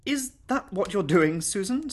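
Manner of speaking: high, anxious lady of the house. Acted. Mistress questions governess before guests, anxious. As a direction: ask it worriedly, rising at the end. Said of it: "said Missus Gator anxiously".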